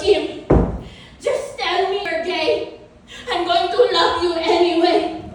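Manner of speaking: put-on motherly insistence; mom impression. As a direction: imitate mom coaxing, pushing the last phrase. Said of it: "she looks at me and she goes".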